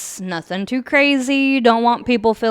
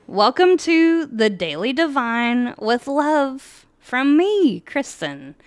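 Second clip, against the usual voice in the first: reading aloud. Acted. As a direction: read it like a heartfelt book introduction, unhurried. Finishes reading the introduction.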